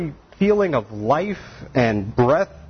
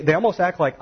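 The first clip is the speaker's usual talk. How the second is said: ordinary delivery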